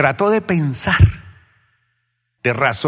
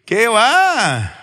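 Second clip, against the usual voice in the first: incredulous; 10 semitones higher, 5 dB louder than usual. Real, not acted. Rejecting a joke about the angel.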